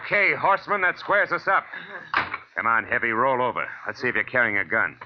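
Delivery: loud, hard commands to a beaten man; tough threat. Acted. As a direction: bark orders over him. Detective overpowers a man.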